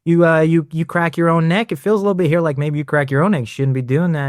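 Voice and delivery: mock flirty, halting scolding; imitating a flirty telling-off; flirtatious chiropractor. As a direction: tease with stammered mild reproach. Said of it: "he'll say".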